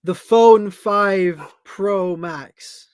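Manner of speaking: slow, loud mock announcement; mock product name. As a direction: draw out the silly name slowly and loudly. Reading out a mock knockoff phone name.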